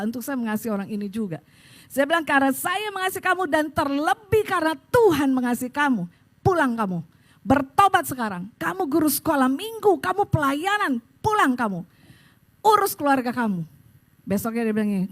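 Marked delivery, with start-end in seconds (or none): 2.3-13.6 stern, emphatic telling-off; retold firm scolding; firm rebuke. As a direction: order them home with authority. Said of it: "saya tegas".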